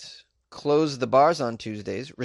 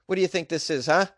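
put-on cranky old man; 5 semitones higher than usual. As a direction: shout at the spring breakers like an angry grandpa. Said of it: "I sound like an old man right now".

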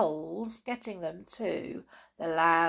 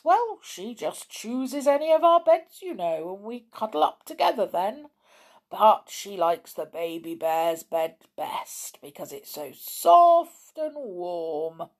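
gentle bear person; 3 semitones higher, 5 dB louder than usual. Acted. Father bear explains.

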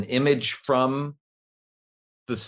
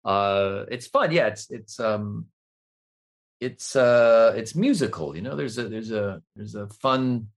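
Jeff Goldblum voice. Pretend. Explaining the hand moves, in a light Jeff Goldblum voice. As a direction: stammer musically like Goldblum. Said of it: "doing Jeff Goldblum".

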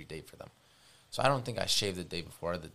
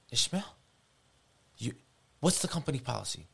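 stern boss; 5 semitones higher than usual. Retold or imitated. Boss scolding him, retold.

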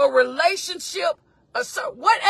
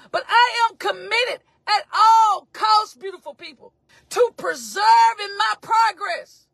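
fervent declaration; 4 semitones higher than usual. Real, not acted. Preacher vowing to the congregation, high fervent declaration. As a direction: lean into every word.

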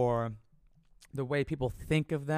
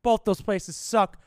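loud, higher ranting curses; angry rant; 4 semitones higher, 7 dB louder than usual. Real, not acted. Ranting about old jobs, loud angry cursing. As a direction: spit out the curses, slowing on the last.

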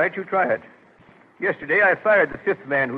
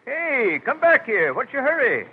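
higher-pitched call to come back; calling after someone; 7 semitones higher, slower than usual. Acted. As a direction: call out to stop a departing lad. Calls after departing job seeker.

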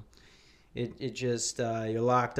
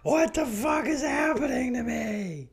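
mock panicked woman; 11 semitones higher than usual. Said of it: "and they're like".

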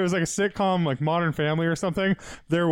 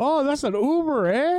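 high-pitched mock Canadian accent; joking Canadian lilt up to "eh"; 9 semitones higher than usual. Bar crowd seeing an Uber, mock Canadian accent. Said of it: "What kind of Canadian are you?".

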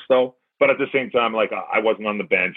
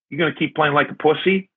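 a higher, needling coach's taunt; mock coach jab; 6 semitones higher than usual. Coach ribbing a bloodied player, higher needling taunt. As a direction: poke at him like the coach on the bench. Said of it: "He's like".

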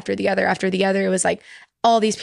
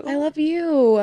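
higher, laughing affection; higher and laughing, returning love to a friend; laughing love you; 8 semitones higher, slower than usual. Real, not acted. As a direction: laugh it back warmly.

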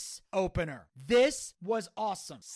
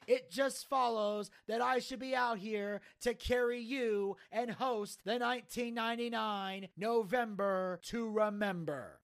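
lightly put-on wrestling host, pitched up a touch; ring announcer's intro; 3 semitones higher, slower than usual. The speaker opens the show for the crowd, announcer patter. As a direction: deliver a showy host's introduction.

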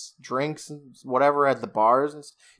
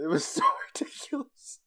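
laughing; 12 semitones higher, 6 dB quieter, faster than usual. Real, not acted. Helpless laughter after scene.

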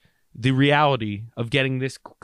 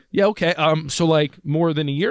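skeptical dentist; 4 semitones higher than usual. Retold or imitated. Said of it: "She's like".

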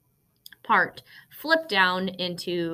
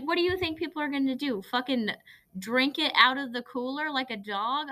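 mock exasperated mom, higher and faster; imitating mom scolding, pitched up; lightly hammed-up irritated mother; upset mom; 6 semitones higher than usual. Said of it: "she got really upset with me and was like".

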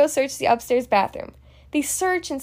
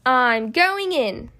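brave resolve; 3 semitones lower, much slower than usual. Acted. Brave declaration before stinky toilet.

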